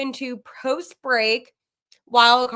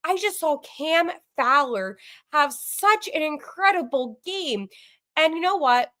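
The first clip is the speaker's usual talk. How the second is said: flustered; 4 semitones higher than usual. Real, not acted. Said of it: "I'm all flustered".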